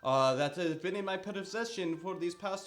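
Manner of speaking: high, loud salesman pitch; merchant talking it up. Acted. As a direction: oversell the trinket like a sly merchant. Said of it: "He begins to talk this up".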